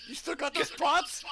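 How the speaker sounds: slow words through laughter; laughing. Real, not acted. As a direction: laugh while asking, stretched out. Laughing after huge damage.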